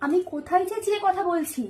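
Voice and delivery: slow, deliberately measured defiance; pointed denial. Acted. Wife denying she is shouting, slow defiant insistence. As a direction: spell it out slowly, stubbornly controlled.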